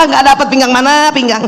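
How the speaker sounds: laughing while joking. Real, not acted. Teacher laughing with mothers about her waist. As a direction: chuckle through the joke.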